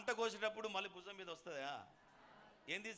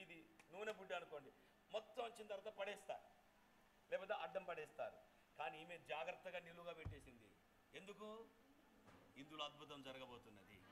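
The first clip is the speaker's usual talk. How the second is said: hushed suspense; 9 dB quieter than usual. Acted. Hushed build before the miracle.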